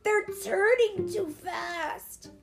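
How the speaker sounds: put-on high, drawn-out child's wail; panicked cry. A narrator's reading. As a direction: cry out in alarm on a runaway trike. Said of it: "Alex cried".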